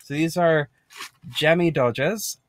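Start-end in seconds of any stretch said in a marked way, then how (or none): 1.3-2.4 slow, clumsy mock British accent; drawn-out amateur British accent, rising at the end; badly put-on accent. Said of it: "put on the accent that I'm not good at".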